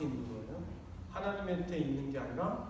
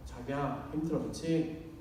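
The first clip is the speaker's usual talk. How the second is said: tender comfort; 5 semitones lower than usual. Shown as a demonstration. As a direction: coax it out gently. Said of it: "저도 그래서 노력하는 거예요".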